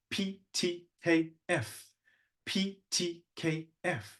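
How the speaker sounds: soft, short, separate high consonants; choral consonant drill. Shown as a demonstration. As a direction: puff out each consonant on its own. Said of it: "These are choral exercises".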